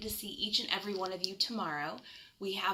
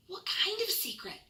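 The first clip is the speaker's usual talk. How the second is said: put-on high, excited child's voice; a curious boy asking eagerly; eager little raccoon; 11 semitones higher than usual. Chester asks eagerly.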